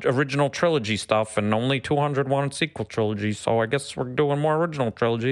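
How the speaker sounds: a hint of a goofy troll voice. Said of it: "I love your troll voice".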